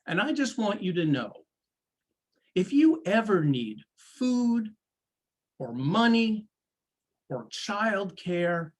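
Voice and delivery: reach out gently, pausing between phrases; measured, caring voice with lifted pitch; heartfelt compassion. Retold or imitated. Victim consoles the accused mother.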